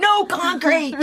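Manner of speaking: high, slow, drawn-out words; pointed mock dictation. Planting wishes on Dad's phone, slow mock dictation.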